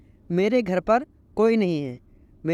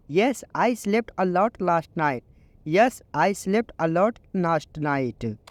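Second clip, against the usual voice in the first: very slow, each English word laid out clearly; slow teaching read; much slower than usual. Shown as a demonstration. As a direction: model the sentence slowly for learners. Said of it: "आप इसको English में बोलो".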